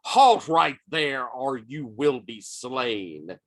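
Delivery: a hint of a stern paladin's order; lightly voiced paladin. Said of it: "as one of the paladins says".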